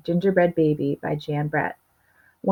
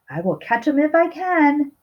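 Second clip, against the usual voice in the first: higher, eager little vow to himself; lightly voiced determined child; determined Maddie; 8 semitones higher than usual. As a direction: promise yourself you'll catch him. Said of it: "Maddie said to himself".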